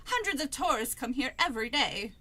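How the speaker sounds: lightly faked British accent; amateur British accent for a character's line. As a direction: read it as a would-be Londoner. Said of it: "do the voices at, in British".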